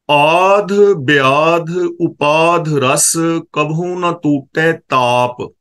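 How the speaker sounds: very slow, drawn-out intoning of the verse; scripture recitation. Acted. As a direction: stretch every word of the holy line.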